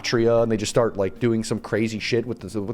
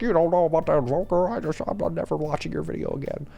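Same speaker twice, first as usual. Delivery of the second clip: mock yell; 5 semitones higher than usual. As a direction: put on a higher voice for a half-hearted yell. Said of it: "just yell at me again".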